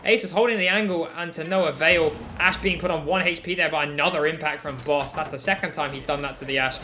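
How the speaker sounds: loud excited play-by-play; esports caster. Real, not acted. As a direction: shout the big pick with hype. Caster reacts to a big pick.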